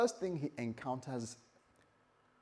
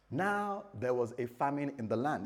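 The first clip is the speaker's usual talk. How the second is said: "Now" held apart at the start; stress on NOW. Shown as a demonstration. Preacher pointing out the scripture's wording, stressing "Now". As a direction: lean on "Now" as the key word. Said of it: "It says now".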